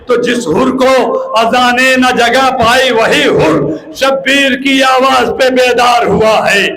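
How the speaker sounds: measured verse recital rising in pitch; declaimed poetry. Real, not acted. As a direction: declaim the couplets to the crowd, lifting each line. Recites verse to introduce mourners.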